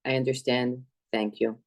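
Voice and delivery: subdued, switched-off quote; turned-off voice. Retold or imitated. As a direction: imitate someone whose voice has suddenly switched off. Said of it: "her voice completely changed".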